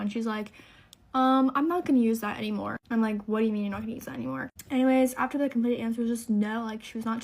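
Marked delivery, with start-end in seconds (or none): 1.1-2.8 hesitant "um", then a mildly agitated refusal; retold flustered refusal. Doctor suddenly backing out to the patient, retold flustered refusal. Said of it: "all of a sudden starts freaking out". 3.3-4.5 rapid-fire disbelieving echo; retold incredulous question. Patient questioning the doctor's sudden refusal, retold quick disbelief.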